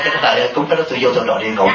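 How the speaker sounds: quick laughing reply, words tumbling out; laughing fast retort. Retold or imitated. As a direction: rattle it off through laughter. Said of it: "Tôi nói".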